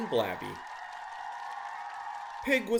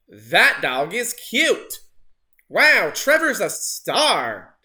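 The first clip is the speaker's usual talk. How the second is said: 1 delighted photographer; 8 dB louder, slower than usual. A narrator's reading. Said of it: "the photographer said".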